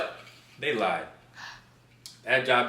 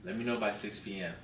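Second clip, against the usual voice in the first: soft, low mock boss; quiet boss voice; 5 semitones lower, 14 dB quieter than usual. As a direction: lightly voice the boss, softly. Boss voiced in retold call.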